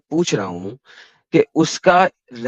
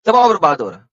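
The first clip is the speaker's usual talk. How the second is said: dramatic build; 4 semitones higher, 3 dB louder than usual. Retold or imitated. Dramatizing the prophet's dying pain.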